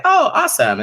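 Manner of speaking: very high, bright gush; mock delight. Guest imitating the star's reaction, high squeal. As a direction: gush it like you're thrilled.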